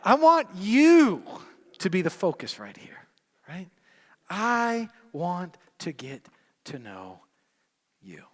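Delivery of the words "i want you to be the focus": rising preacher cry; preacher's shout. Acted.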